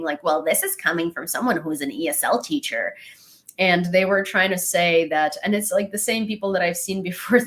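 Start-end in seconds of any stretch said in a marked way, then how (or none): 0.2-3.0 mock condescending, talking down; imitating a commenter talking down to her. She mocks a commenter with a condescending put-down. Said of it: "condescendingly saying".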